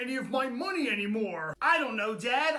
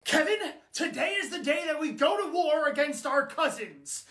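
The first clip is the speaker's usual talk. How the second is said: high, dramatic British war speech; rally the troops in a British accent; 4 semitones higher than usual. Acted. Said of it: "talking with a British accent".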